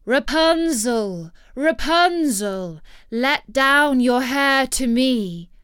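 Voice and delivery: slow, loud call up to the tower. Acted. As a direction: call up to her, drawn out. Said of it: "came and cried".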